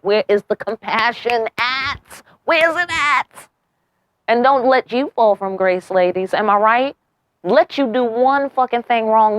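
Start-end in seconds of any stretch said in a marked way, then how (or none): 0.0-3.5 exasperated demand. Acted. Mocking fuckboy excuses, exasperated.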